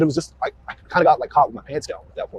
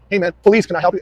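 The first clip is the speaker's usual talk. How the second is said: raised voice, firm police hail; retold call-out; 4 semitones higher, 4 dB louder than usual. Officer re-enacts hailing a stranded driver, raised voice. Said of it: "at which point I said".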